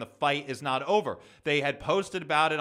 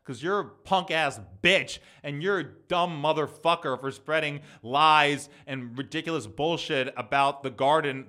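real threat. Real, not acted. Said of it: "I'm making threats on my podcast".

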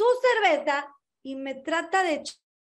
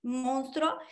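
slow, softer murmur of disbelief; quiet, slow aside of amazement; stunned hush; 5 dB quieter, much slower than usual. Retold or imitated. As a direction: breathe it out slowly in shock. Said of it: "Y yo dije".

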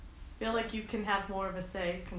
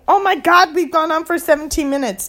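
surprised; 9 semitones higher, 15 dB louder than usual. Real, not acted. Suddenly noticing the time.

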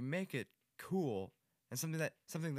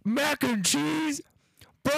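high, loud, stretched disbelief; surprised; 14 dB louder, much slower than usual. Real, not acted. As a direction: shriek it in shock, drawn out. Shocked at friend's food.

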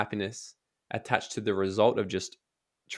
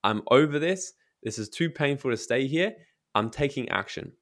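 fed-up resolve; 2 semitones higher than usual. Shown as a demonstration. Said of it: "get to the point of going".

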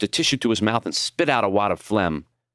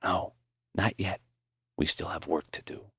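soft weak voice; 9 dB quieter than usual. Acted. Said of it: "Maury forced a smile".

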